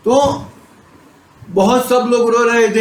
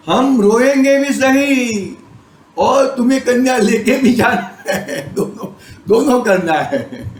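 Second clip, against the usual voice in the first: laughing; 3 semitones higher than usual. Retold or imitated. Preacher retelling the groom's reply, laughing through it. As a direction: chuckle the words out as you tell them.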